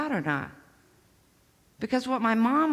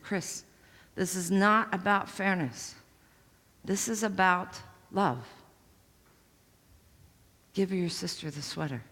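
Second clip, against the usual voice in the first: gentle mom. Retold or imitated. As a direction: teach her it's about love. Mom calmly explaining love.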